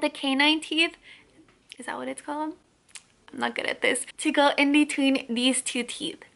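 finger stretching mouth corner; talking while showing braces; lip pulled aside by finger. Real, not acted. Seen 0: Finger pulls lip corner showing braces; paused about 1.4–3.8.

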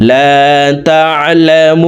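তা'লামুন with a very long oo before the n; slow তা'লামুন with sustained final syllable; three-beat elongation. Shown as a demonstration. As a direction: stretch the last vowel of তা'লামুন, then stop on n. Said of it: "তিন আলিফ টানিয়া পড়িতে".

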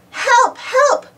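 high, loud frightened cries; calling for help. A narrator's reading. Cartoon distress wail, high and loud. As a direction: submariners call to the legend hunters for rescue, panicked. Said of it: "called the submariners".

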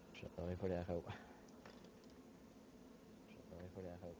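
fading repeated echo; canyon echo. Real, not acted.

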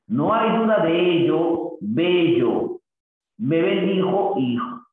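slow, measured reading of a short poem; poem recital. Shown as a demonstration. Teacher reciting a rhyme example to students, slow and measured. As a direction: read the verse slowly to the class, savouring each line.

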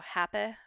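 happy with schwa at the end. Shown as a demonstration. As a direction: say "happy" ending in a schwa, not an ee. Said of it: "word final E with an I or a schwa".

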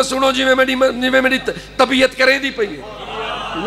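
feigning illness. Pretend. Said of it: "मैं कहूँगा".

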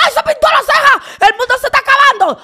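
high, fast mock outrage at a painted eyebrow; mocking shrill gossip. Mocking critics who gasp at her painted eyebrow, high and fast. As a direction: squeal it like a scandalized churchgoer. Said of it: "di que".

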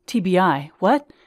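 baffled and scared; wife thrown by the jargon, alarmed; bewildered. Acted.

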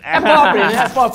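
talking around a pen held in the teeth. Real, not acted. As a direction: say it with a pen between your teeth. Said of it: "Tira a caneta da boca". (com a caneta na boca)

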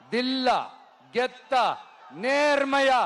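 three short shouted words, one by one; punchy shouts. Real, not acted. Leader daring the chief minister to fight fair, punchy shouts. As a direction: hurl each word as a dare. Challenging rival to face election.

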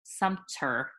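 Sumter said with no N, just SUM-ter; corrected pronunciation. Shown as a demonstration. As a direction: say Sumter carefully without the extra N. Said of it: "I always wanna add an N".

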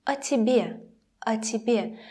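"О тебе" with a short, reduced о; shorter reduced o. Shown as a demonstration. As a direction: make the о of "О тебе" a brief uh. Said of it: "sound a little bit shorter".

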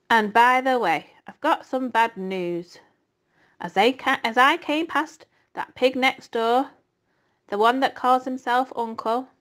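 a lightly voiced sneering rat; taunting rat. Templeton taunts Wilbur about the knife, lightly sneering. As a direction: needle the pig with bad news.

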